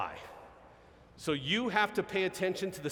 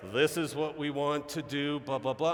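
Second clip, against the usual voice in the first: unhurried stump-speech delivery; thirty-mile-an-hour pace; 3 semitones lower than usual. Retold or imitated. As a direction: imitate a politician starting at an easy pace. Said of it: "everybody's at thirty".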